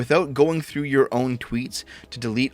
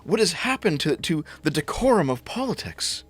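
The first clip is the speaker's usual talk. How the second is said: higher, pearl-clutching parody; mock outrage; 5 semitones higher than usual. Vlogger mocking critics of Let's Go Brandon, higher mock dismay. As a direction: play a scandalized leftist. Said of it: "you're like".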